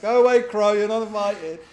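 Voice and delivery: mock yell. Player yelling at pesky teammate Crow, mock angry. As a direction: shoo him off loudly. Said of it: "And you're like".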